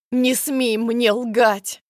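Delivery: slow, loud furious scream. Acted. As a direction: scream it so hard it hurts. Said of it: "Кричу так громко, что болит горло". (громкий медленный крик)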